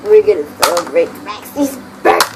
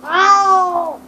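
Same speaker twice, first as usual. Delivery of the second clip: higher, yelped ow; sharp ow; 8 semitones higher than usual. Real, not acted. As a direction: yelp at a sudden bite. Sudden pain.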